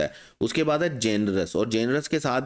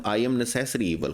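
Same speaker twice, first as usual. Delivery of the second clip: villain line; much slower than usual. Retold or imitated. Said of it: "तो हम उसको बोलते हैं".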